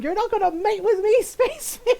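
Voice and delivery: very high, loud comic outrage; hammed-up affront, breaking into laughter; Donna Noble. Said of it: "Just like".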